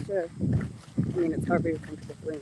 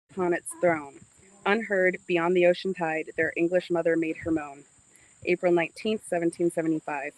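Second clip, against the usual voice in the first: reading an inscription; 4 dB louder than usual. Acted. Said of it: "Want me to read it out loud?".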